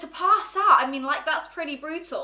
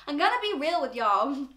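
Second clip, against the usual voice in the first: attempted American accent. Shown as a demonstration. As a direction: have a go at sounding American. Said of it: "I'll try and do an American accent".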